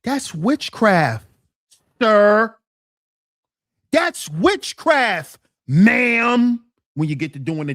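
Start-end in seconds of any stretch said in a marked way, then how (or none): 0.0-2.6 slow, heavy accusation then loud "sir"; mock preacher warning. 3.9-6.6 slow, heavy accusation then loud "sir"; mock preacher warning. Repeat warning to women.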